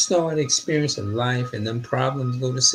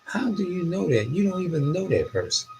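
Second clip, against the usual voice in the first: incredulous; 7 semitones higher than usual. Retold or imitated. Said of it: "in my mind, I'm like".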